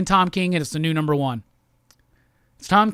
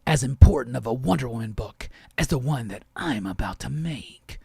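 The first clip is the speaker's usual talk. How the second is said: lower, self-important mock boast; pompous writer impression; 9 semitones lower, 3 dB quieter than usual. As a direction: play the grandiose author, deep and smug. Mocking Tom King's grand claim.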